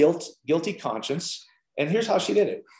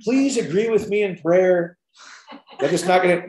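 mock pleading prayer; 3 semitones higher than usual. Mocking effortful all-night prayer.

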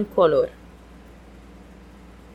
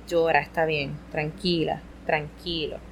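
soothing; 3 semitones lower, 6 dB quieter than usual. Shown as a demonstration. Models comforting a crying child.

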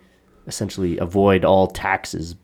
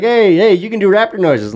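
high teasing schoolkid; egging him on, high-pitched; mocking kids' voice; 13 semitones higher, 6 dB louder than usual. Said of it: "They're like".

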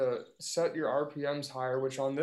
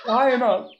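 laughing; 10 semitones higher, 10 dB louder than usual. Real, not acted. Laughing while describing the crazy driver.

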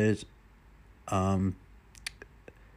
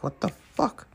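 voicing the dog; 9 semitones higher, slower than usual. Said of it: "It's like".

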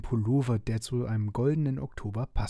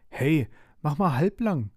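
louder, higher interjection; raised voice, mild reproach; calling out; 5 semitones higher, 5 dB louder than usual. A narrator's reading. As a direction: call out to break up a squabble. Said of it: "rief Mia".

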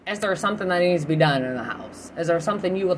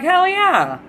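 very high, loud hell yeah; whooping yes; ecstatic; 13 semitones higher, 7 dB louder than usual. Retold or imitated. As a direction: shout it with pure delight. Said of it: "I'm like".

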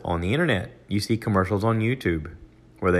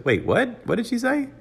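shocked. Retold or imitated. Husband shocked by broadcast.

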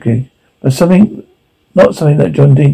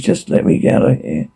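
whispering; 6 dB quieter than usual. Acted. Trapped in elevator, pleading.

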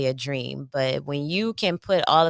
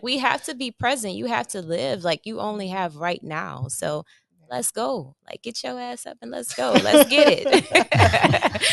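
hype pep talk; 7 semitones higher, 3 dB louder than usual. Retold or imitated. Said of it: "I tell him now".

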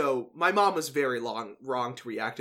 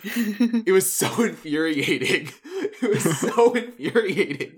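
laughing exasperation; 6 semitones higher, 6 dB louder, slower than usual. Real, not acted.

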